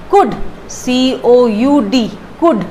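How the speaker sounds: कुड said with no L, clearly slow; कुड, not कुल्ड, L left silent; correct silent L. Shown as a demonstration. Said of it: "आपकी pronunciation क्या होगी". (एल के बिना धीमा कुड)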